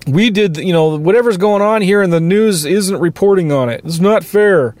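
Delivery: mock whining. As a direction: whine it like a sulky pundit, half-joking. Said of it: "Whining about".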